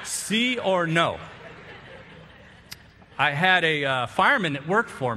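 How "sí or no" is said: slow sí or no. Shown as a demonstration. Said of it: "That's all I got".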